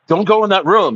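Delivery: high, pleading warning voice; a hint of a nervous girlfriend; mock girlfriend warning.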